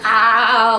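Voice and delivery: loud drawn-out mock groan; spastic "ah". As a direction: imitate husband's spastic "aah". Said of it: "like, all spastic".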